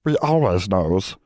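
a lightly voiced stern little elf; house elf voice. House elf Alina insisting they always know, slow elf voice.

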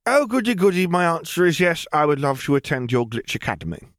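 high, delighted squeal settling down; gleeful. A narrator's reading. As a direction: accept with childlike glee, starting very high. Lily gleefully accepts the academy offer.

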